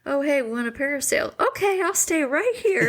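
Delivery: voicing the family. Wife voicing family at beach.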